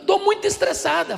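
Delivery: put-on high, half-laughing child complaining; girl's voice. Pastor imitating the girl, high and laughing. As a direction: mimic a ten-year-old sighing she's stressed.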